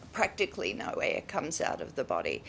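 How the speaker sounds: low creak with the air held back; vocal fry. Shown as a demonstration. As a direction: let the line sink into vocal fry. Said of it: "you get this voice that's called vocal fry".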